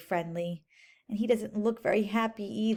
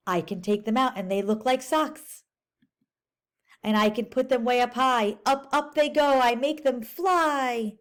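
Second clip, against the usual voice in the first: lively picture-book read-aloud; teacher reading a storybook aloud to kids; reading to children. Acted. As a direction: read it to the class, bright and clear.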